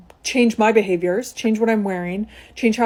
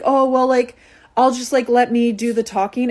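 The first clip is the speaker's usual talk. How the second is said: higher, airy friend voice deferring; imitating the friend; 3 semitones higher than usual. Friend says the boyfriend will do the talking, higher and deferring. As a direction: let him handle it, pitched up.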